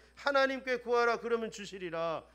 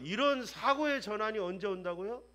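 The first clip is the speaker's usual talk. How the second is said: ordinary talk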